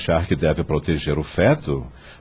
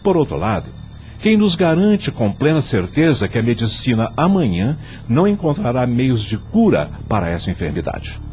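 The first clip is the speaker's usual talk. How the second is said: measured, solemn judge delivering his vote; formal court speech. Acted. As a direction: argue the case gravely before the court.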